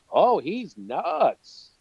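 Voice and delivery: slow, drawn-out mocking verdict; mock dismissal. Bystanders judging a ranting man, mock dismissive. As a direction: draw it out as a scornful write-off.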